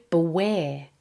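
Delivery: beware as "buh-WARE"; weak start, emphasis on the end of beware; second-syllable stress. Shown as a demonstration. Teacher explaining the word beware, stressed on second syllable. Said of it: "has the emphasis on the second".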